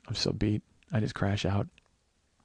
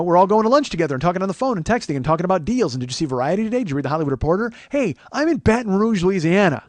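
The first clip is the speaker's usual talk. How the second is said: loud, raised-pitch ribbing of would-be big shots; mock exasperated rant; 6 semitones higher, 7 dB louder than usual. Comic ranting about the crew's lunch talk, mock exasperated. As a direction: rant it loudly, high in your voice.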